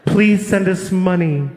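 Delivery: slow, somber pleading announcer; mock-solemn slow charity voiceover. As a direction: plead for donations like a sad TV ad. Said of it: "the voice comes on".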